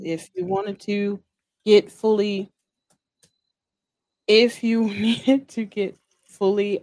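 a hint of a country accent; lightly voiced Southern country nurse. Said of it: "I'm trying to give her, like, real country".

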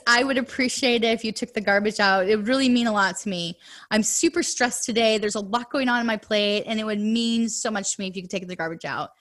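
brisk, friendly asking with a pleading lilt; sincere, kind request instead of a nag; polite appreciative request. Shown as a demonstration. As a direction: ask nicely, like it truly matters to you. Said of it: "use the phrase".

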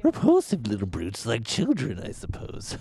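lightly voiced sinister villain; a hint of the Joker, creepy and low. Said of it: "I'm the Joker".

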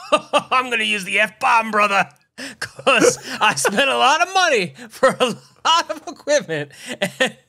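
loud, laughing wrestler rant; wrestling promo. Pretend. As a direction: cut a fiery wrestling promo. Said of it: "cut a promo on technology".

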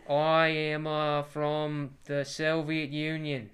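slow, loud mock-Russian declaration; hammed-up Soviet Russian accent. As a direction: put on a heavy Russian accent, drawn out. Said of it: "I was doing a Russian ac".

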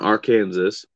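"Arkansas" echoed as "ar-KAN-zus"; Kansas-style pronunciation. Shown as a demonstration. Friend confirms the wrong way to say the state, Kansas-style. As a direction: sound the final s in "Arkansas", like Kansas. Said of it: "must pronounce Arkansas's correctly".

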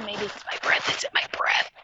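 whispered aside; under her breath. Real, not acted. Worried about her breath, aside.

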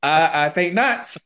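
slow, lightly haughty I think not; mock prim refusal. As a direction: play the offended lady.

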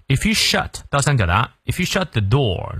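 "shut" with the open, short inverted-triangle vowel. Shown as a demonstration.

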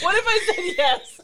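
hammed-up British accent repeated; bad British accent. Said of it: "worst British accent I've ever done".

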